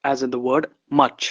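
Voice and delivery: much said very slowly, short u; very slow example. Shown as a demonstration. Teacher giving an English example word, very slow. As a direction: spell out much almost syllable by syllable. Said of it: "यहां पे".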